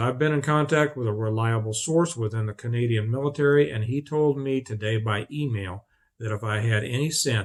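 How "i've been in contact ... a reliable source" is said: plain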